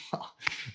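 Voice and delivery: soft breathy chuckle; small acted laugh, kept under the breath; quiet private snicker; laughing to oneself. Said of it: "you just start laughing to yourself".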